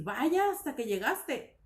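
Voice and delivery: slow, lightly exclaimed "Vaya, hasta que llegaste"; mock exclaimed surprise. Shown as a demonstration. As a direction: act a little startled or annoyed at a late arrival. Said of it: "sobresaltada o sorprendida o enojada quizás". (sorpresa fingida y ligera)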